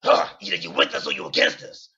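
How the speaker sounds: a loud, breathy mock yell; imitated yell. Random guy at the bar yelling at him, loud mock yell. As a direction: bark it like a stranger picking a fight. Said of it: "he yells".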